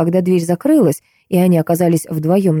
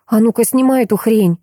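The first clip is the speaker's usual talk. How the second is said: higher, sharp command from a hurt woman; angry demand; 5 semitones higher than usual. A narrator's reading. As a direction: order him to take it off. Maya angrily demands.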